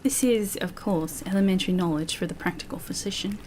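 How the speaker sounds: put-on quoted doctor in an imperfect English accent; lightly put-on English accent; attempted English accent. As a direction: try an English accent, drifting toward New Zealand. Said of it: "I'm sorry that my English accent".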